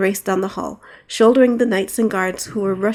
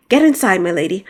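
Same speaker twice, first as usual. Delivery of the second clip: loud sharp order; commanding; 5 dB louder than usual. Acted. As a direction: bark the order to get inside. Knight orders princess inside.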